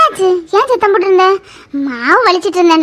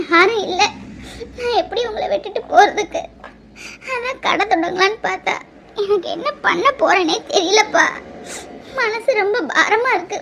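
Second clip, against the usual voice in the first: softer, half-sobbing despair; tearful lament; 6 dB quieter than usual. Acted. Struggling mother confiding her despair to her little son, tearful and soft. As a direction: pour out the worry through tears.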